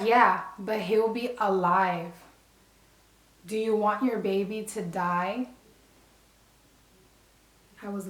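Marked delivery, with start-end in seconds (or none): 0.0-5.5 imitating a snapping, angry doctor; mock angry doctor talking down to her; pissed doctor. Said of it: "She was pissed".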